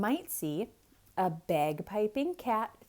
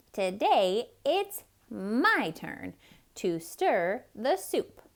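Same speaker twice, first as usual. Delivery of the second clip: proud duck. Acted. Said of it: "and said".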